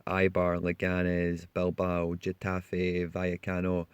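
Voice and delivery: team names in a Spanish accent. Shown as a demonstration. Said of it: "I feel like my Spanish accent".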